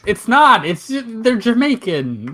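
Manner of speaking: high laughing denial; laughing protest. Real, not acted. Defending his impression, laughing.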